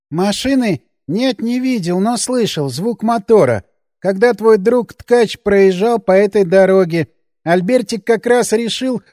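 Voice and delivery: a hint of a fearful man-child; childlike Albertik. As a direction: speak like a scared grown child. Albertik explains.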